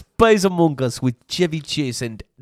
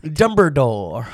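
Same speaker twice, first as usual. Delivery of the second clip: mock Asian accent. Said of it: "you doing an Asian accent".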